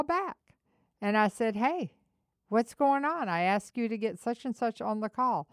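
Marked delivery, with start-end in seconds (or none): 1.6-5.5 imitating his impatient call to staff; retold irritated call. Angry call to employee retold.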